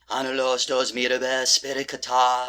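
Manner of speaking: measured séance chant; spell incantation. Acted. Medium summoning two spirits, incantation. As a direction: intone it like a magic spell.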